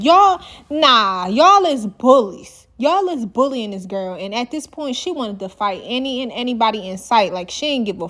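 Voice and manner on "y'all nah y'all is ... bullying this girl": retold call-out. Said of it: "She said".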